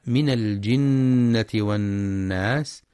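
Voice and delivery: slow chanted tajweed recitation; Quran recitation. Shown as a demonstration. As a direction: recite it slowly with measured tajweed. (تلاوة مجودة بطيئة)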